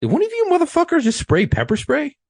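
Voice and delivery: mock sergeant asking, cracking up; laughing supervisor quote. Supervisor asking who sprayed, voiced laughing. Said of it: "and he goes".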